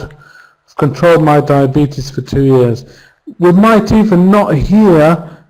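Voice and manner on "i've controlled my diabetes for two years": "of controlled" run together, no I sound; reduced I've. Shown as a demonstration. Teacher modelling fast speech, I've reduced to "of". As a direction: glide from a weak "of" straight to "controlled". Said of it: "we might not even use".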